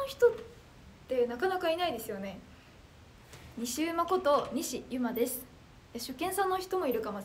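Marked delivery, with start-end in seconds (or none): 3.6-5.4 slow self-introduction. Shown as a demonstration. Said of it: "ちょっと一回自己紹介したいと思います".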